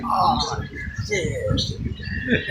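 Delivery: imitated reaction, leaping up very high; mock dismay. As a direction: let it squeal upward as a retold reaction. Retelling Marcus's disgusted reaction.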